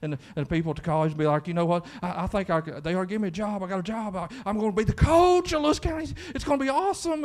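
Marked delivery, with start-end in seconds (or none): 1.5-7.2 rising into a high, excited boast; hyped up. Retold or imitated. Pastor imitating Sammy bragging about the coaching job, hyped up. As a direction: imitate a young man bragging about his new job. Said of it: "he's all hyped up".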